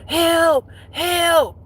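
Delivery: high, loud mock cry for help; mother calling for help. Her mother calling out telepathically, a high mock cry. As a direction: call out high like a distressed mother. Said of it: "I'm hearing my mama".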